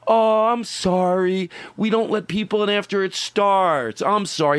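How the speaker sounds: slow, sugary fake apology; a playful put-on sorry to a latecomer; mock apologetic. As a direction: pretend to be sorry while enjoying it. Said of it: "Oh, I'll just be like this".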